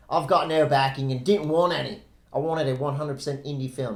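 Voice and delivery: a weak Australian accent attempt; half-hearted Aussie accent. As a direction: read his quote in a bad Australian accent. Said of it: "That's not a good Australian accent".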